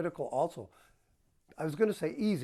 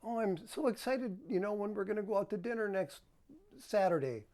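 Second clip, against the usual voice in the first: excited wife; 5 semitones higher than usual. Retold or imitated. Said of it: "if she's saying something like".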